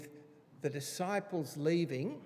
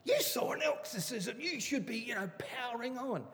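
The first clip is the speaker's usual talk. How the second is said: much higher, disbelieving "What?"; incredulous; 9 semitones higher than usual. Retold or imitated. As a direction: retell your own shocked reaction to a friend. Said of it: "And I'm going".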